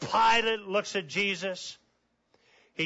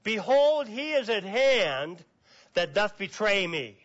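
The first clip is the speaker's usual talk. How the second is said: Jesus urgently rousing his disciples; urgent wake-up call; 3 semitones higher than usual. Acted. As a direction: call them awake, pitched up.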